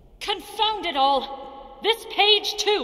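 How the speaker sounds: shrill, very high-pitched screaming. In a game's library scene, a character finds another ruined page, screaming. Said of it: "You're like screaming in my ear".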